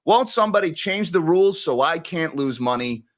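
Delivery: high-pitched mocking complaint; mock whining. Commentator mimicking traders who lose money, mock whining. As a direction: whine it like a sore loser. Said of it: "they start complaining and whining".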